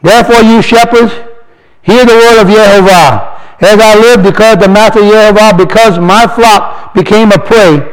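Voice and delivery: slow, solemn reading of scripture. Acted. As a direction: read the verse like a proclamation. Reads scripture aloud.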